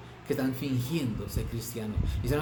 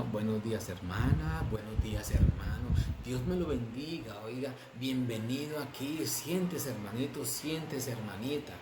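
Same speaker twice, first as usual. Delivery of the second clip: softer, sugary hall-greeter voice, lightly put on; mock churchy greeting; 4 dB quieter than usual. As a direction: imitate a fake-sweet church greeter, softly. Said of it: "cambian el tono de voz". (saludo meloso y fingido de iglesia, en voz más suave)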